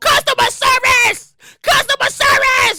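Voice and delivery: mock high screaming. Acting out a caller demanding help: screaming into the phone. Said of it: "you are on the phone screaming into your phone".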